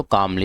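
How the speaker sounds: "कामली" as kaam-lee, the L before M dropped; silent L. Shown as a demonstration. Teacher answers क्या बोलते हैं इसको, "कामली" with silent L. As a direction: leave the first L of "कामली" unsounded. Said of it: "इसमें जो एल है वो silent है".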